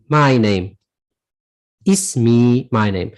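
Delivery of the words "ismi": "Ismi" said lower, last "i" lengthened; teacher's demo of "Ismi" with a long ending; elongated final vowel. Shown as a demonstration. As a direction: draw out the "ee" closing "Ismi". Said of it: "You're gonna elongate that kasra".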